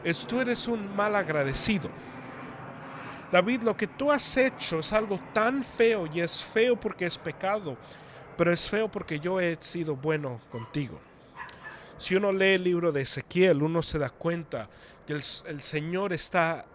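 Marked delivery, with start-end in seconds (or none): 0.3-11.0 lightly voiced divine rebuke; God rebuking David. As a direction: reproach him as the wronged benefactor. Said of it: "Lo que Dios le está diciendo aquí a David".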